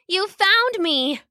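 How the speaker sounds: high, slow, delighted cat voice; purring cat. A narrator's reading. Koma replying to the cat who found her, purring. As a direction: stretch it out in happy relief. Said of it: "she replied, purring loudly".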